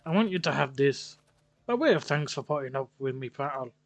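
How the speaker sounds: put-on Irish-Scottish accent. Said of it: "Don't know what fucking accent".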